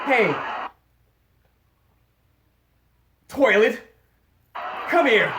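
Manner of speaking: loud call across the house, toilet stretched. Retold or imitated. Parent calling her son toilet, loud call. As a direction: yell for the kid like a parent.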